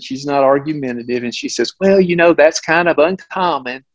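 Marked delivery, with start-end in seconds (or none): 1.8-3.8 pleasant doctor. Retold or imitated. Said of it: "again, very pleasant".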